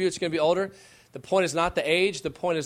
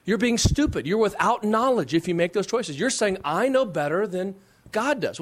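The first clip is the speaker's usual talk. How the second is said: kindly God rebuke; 3 semitones higher than usual. Retold or imitated. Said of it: "he says kindly".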